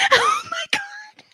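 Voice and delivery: high laughing shriek. Real, not acted. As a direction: laugh it out in disbelief. Laughing in disbelief.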